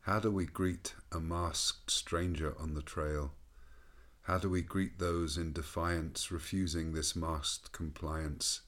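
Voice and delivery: slow, measured poetry reading; poem recitation. Acted. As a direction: recite it slowly and reflectively. Reads his own poem.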